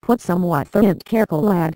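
broad Lancashire workman teasing; mild mock Lancashire accent from a workmate; strong Lancashire accent. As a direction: lay on the Lancashire accent, mocking. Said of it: "in a very strong Lancashire accent".

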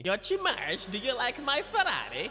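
clumsy put-on Italian accent; attempted Italian accent. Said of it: "trying to do an Italian accent".

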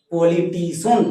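"পলিটিশন" joined up, ending in "শন"; সঠিক উচ্চারণ. Shown as a demonstration. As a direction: model "পলিটিশন" with one-syllable final "shon". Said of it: "শুদ্ধ উচ্চারণ করো". ("পলিটিশন"-এর শেষে এক টানে "শন")

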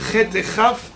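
"Chet" and "Chaf" opened with the same scraped kh; "Chet" rasped just like "Chaf"; identical kh. Shown as a demonstration. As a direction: say "Chet et Chaf" with one raspy kh for both. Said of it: "c'est exactement pareil".

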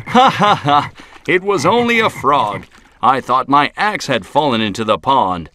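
high loud relieved laughing; laughing lumberjack. Acted. Lumberjack relieved it was only a frog, hearty mock laugh. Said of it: "and he laughed".

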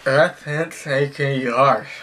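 talking through a mouthguard; words mangled by a mouth guard. Real, not acted. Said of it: "gonna go in my mouth".

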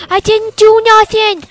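high put-on voice pleading innocence; high whiny protest. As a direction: whine it like a wrongly jailed crook.

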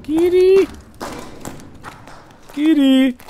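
calling out. Real, not acted. Calling teammate across the map.

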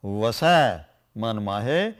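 "vasai man mahe" very slow, low; slow scripture recitation. Shown as a demonstration. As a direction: read the verse slowly and low. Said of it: "You see".

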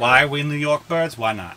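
playful New York bird voice; New York accent. Acted. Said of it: "every accent that he does New York".

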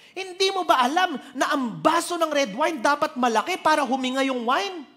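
loud, high scolding at the waiter; dad loudly lecturing the waiter about wine; father shouting at waiter. Retold or imitated. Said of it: "Ba't niya sinisigawan?".

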